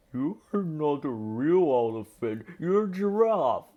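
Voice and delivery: a hint of elephants trumpeting at him. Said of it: "they trumpeted".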